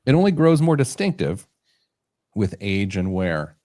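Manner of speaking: measured catalogue copy read; product ad read. Acted. Host presenting the belt to co-hosts, ad-read style.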